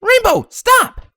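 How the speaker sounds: high, loud, slow command; calling out. A narrator's reading. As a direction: call her friend to halt. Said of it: "Twilight called".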